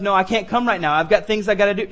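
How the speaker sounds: plain-voiced voicing of a reluctant sinner; excuse-making listener. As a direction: say it as an ordinary excuse. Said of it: "You're thinking to yourself".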